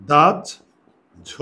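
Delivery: দাহ্য stretched slowly as dajjho; slow drawn-out pronunciation. Shown as a demonstration. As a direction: sound out দাহ্য carefully. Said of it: "এটার উচ্চারণ লিখতে গেলে". (দাহ্য ধীরে টেনে উচ্চারণ)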